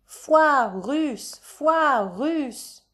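high, drawn-out call; crowd-rousing cry. A narrator's reading. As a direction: call it out like a fairground crier. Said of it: "invite les gens à crier". (cri de foire, aigu et traînant)

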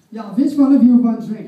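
loud blunt call down the aisle; rude attendant. Acted. Flight attendant calling to passengers, loud and blunt. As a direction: bark it at the whole cabin.

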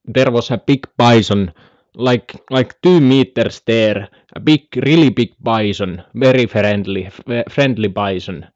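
halting Finnish-accented English impression; Jesse Puljujärvi. Streamer imitating a hockey player on bison, halting accented English. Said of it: "Jesse Puljujärvi-imitaatio".

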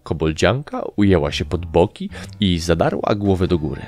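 plain reading voice

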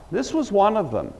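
put-on high-pitched servant girl pointing him out; accusing servant girl. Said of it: "began to say to those who stood by".

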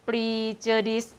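prejudice said "ปรีเจอดิส", first syllable "pree"; trying a pronunciation. Shown as a demonstration. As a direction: sound out "ปรีเจอดิส" with a long pree. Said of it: "ออกเสียงว่า".

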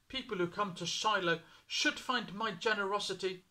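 God announcing judgement; lifted, forceful voice of God. A narrator's reading. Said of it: "God said".

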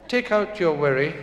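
lightly imitated Japanese doctor's accent. Japanese doctor instructs his patient, mock Japanese accent. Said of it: "It's a wee Japanese doctor".

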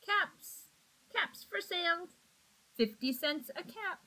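peddler calling out. Acted. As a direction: sing out the wares like a hawker. Peddler calling out his wares.

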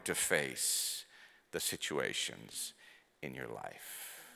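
slow, dropping to a soft low voice; slow falling sermon line, fading low; slow solemn emphasis. Real, not acted. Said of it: "I need you to hear tonight".

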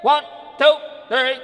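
projected drill-leader count; punched, evenly spaced drill call; cadence count. Shown as a demonstration. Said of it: "And we go".

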